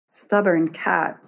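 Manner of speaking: slow, with a tinge of admiration; a slow nod of respect for the cat; grudging admiration. Acted. One-eyed god to stubborn cat, slow and grudgingly admiring. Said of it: "with just a tinge of admiration".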